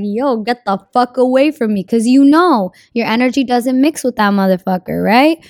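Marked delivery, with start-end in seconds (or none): 0.0-1.8 mock repulsed. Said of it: "versus when you meet somebody".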